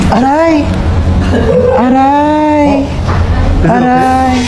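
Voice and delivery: loud high yelps of pain; loud ouch. Pretend. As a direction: cry out as if hurt. Yelping in pain.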